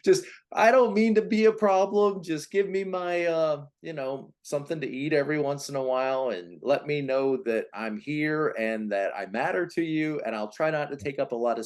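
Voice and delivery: lightly voiced needy infant, asking not to be a bother; voicing the baby. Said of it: "the baby in the family".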